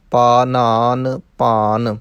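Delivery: ਪਾਨਾਨ ਪਾਨ with dental n, long vowels. Shown as a demonstration. Teacher repeats ਪਾਨਾਨ ਪਾਨ slowly, no retroflex n. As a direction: keep every n in ਪਾਨਾਨ ਪਾਨ dental, drawn out. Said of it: "ਨਾਣੇ ਨਹੀਂ ਲਾਉਣੇ".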